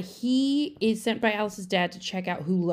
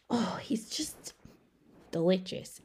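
soft, slow, breathy swoon; a lovesick aside; swooning whisper; 6 dB quieter than usual. Real, not acted. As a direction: whisper it like a crush. Swooning over actor.

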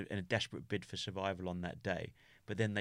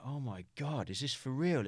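dawning realisation; 3 semitones higher than usual. Retold or imitated. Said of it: "it all dawned".

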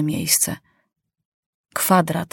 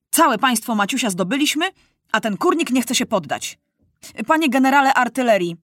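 imperious, higher, speeding up on the order; commanding young king; 3 semitones higher than usual. Acted. Young king orders the artillery general, impatient command.

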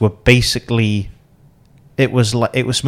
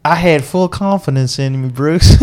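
put-on southern American accent; 5 semitones higher, 4 dB louder than usual. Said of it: "It was so good".

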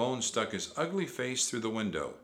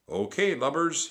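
loud, raised pirate voice; Captain Bones; 7 semitones higher, 6 dB louder than usual. A narrator's reading. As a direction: order them about roughly. Captain commands the children.

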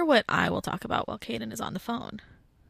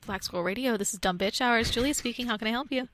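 polite phone-answering voice, a touch softer; customer service voice; 6 dB quieter than usual. Pretend. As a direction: answer like a helpful call centre agent. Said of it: "use my customer service voice".

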